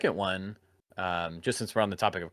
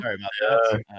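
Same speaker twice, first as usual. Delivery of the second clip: speaking while chewing; muffled by a mouthful; mouth full; 7 dB louder than usual. Real, not acted. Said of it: "talking with my mouth full".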